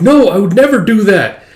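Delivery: a lightly put-on timid girl; Yor's flustered reply. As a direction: protest sweetly but flustered.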